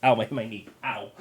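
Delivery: dizzy, hurt after a stumble; pained after falling over; tripping and falling. Real, not acted. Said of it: "I'm getting dizzy right now".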